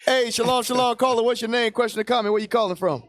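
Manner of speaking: upbeat radio host taking a call; call-in host greeting. Acted. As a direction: welcome the caller like a show host.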